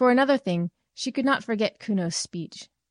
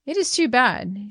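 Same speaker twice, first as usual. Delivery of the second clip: slow, raised complaint; exclaiming; 5 semitones higher, 4 dB louder than usual. Acted. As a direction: exclaim it slowly in exasperation. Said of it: "she exclaimed".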